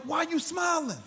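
high, drawn-out disbelief; baffled question. Retold or imitated. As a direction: imitate a doctor who can't understand it. Doctor baffled by his smile.

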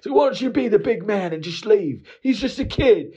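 squeaky sarcastic repeat of the buddy; mocking echo. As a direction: throw the buddy's words back, mocking. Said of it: "And I was like".

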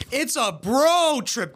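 high, slow mock of the punchline; exaggerated, jeering echo; mocking imitation. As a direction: parrot it back with a drawn-out "bro". Mocks the cast's pun back.

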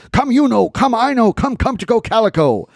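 high singsong dog call. Acted. Man calling his dogs.

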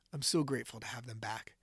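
whispered, moved gratitude; grateful whisper. Real, not acted. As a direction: hush it out, overcome. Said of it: "I'm getting emotional".

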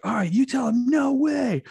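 squeaky excited host voice; cheery host voice. Retold or imitated. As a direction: egg the little kid on, all pep. Hosts coaching the little girl.

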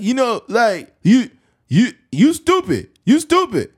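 mock Tank. Tank trash-talking his opponent, high and dopey. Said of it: "something's wrong with his brain".

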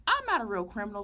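dismissive retort. Retold or imitated. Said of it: "I'm like".

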